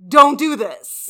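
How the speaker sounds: slow, booming, punched-out warning; emphatic warning. Real, not acted. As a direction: hammer each word as the final verdict. Climax of repeated warning.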